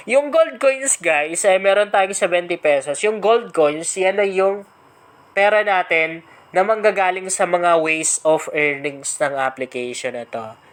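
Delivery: stuffy blocked nose voice. Real, not acted. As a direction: talk through a blocked nose. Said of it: "kasi parang barado yung ilong ko".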